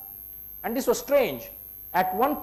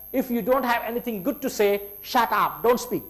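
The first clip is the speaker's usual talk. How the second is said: higher, angry outburst; retold scream; 5 semitones higher than usual. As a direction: snap it out like a furious scolding. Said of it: "screamed at the top of her voice".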